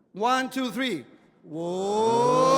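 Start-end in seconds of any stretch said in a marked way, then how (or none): 1.4-2.6 loud gung-ho soldier. Shown as a demonstration. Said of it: "We go oh".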